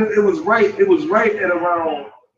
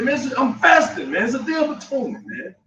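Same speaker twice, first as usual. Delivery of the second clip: mild mock anger; 7 semitones higher than usual. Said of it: "I got mad".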